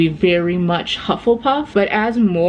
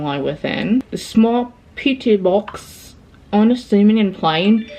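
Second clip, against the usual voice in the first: put-on British accent. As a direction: read it out in an assumed British voice. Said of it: "I don't know why I'm doing an accent".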